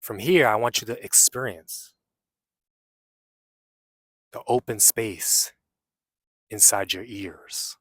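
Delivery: unhurried meditation guide with long pauses; guided meditation. Real, not acted. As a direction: guide them inward, leaving long silences between phrases.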